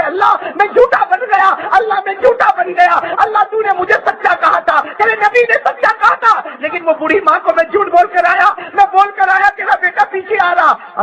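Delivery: high-pitched imitation of pleading with God; retold tearful plea. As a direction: cry out in mild mock anguish. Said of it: "حضرت ابو بکر روتے گئے". (روتے ہوئے فریاد کی نقل)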